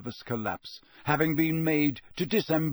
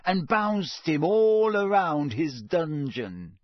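dreamy; 5 semitones higher, 4 dB louder, slower than usual. A narrator's reading. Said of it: "his eyes misting over".

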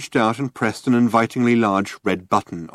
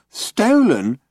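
loud, high mimicking echo; mocking echo; 11 semitones higher, 4 dB louder than usual. A narrator's reading. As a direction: parrot him back mockingly. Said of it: "mimicked Marvin".

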